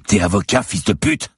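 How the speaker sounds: enraged cop jeering at the lawyer; angry cop. Acted. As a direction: spit the insult at him. Cop snarls at captive.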